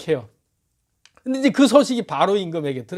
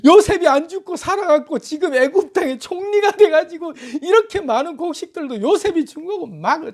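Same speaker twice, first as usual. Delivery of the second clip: higher, tumbling excited explanation; eager excitement; 10 semitones higher than usual. Acted. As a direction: spill out the news eagerly. Brothers excitedly explaining to Jacob.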